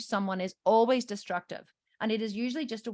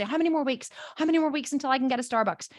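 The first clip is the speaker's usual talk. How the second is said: slightly raised, lightly voiced kid; lightly imitated impatient daughter; eager child asking; 4 semitones higher, faster than usual. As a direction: ask like a child counting the days. Daughter counting down, acted.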